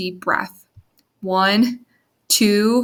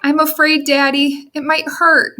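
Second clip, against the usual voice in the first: put-on little girl voice; 7 semitones higher than usual. A narrator's reading. Scared child speaks.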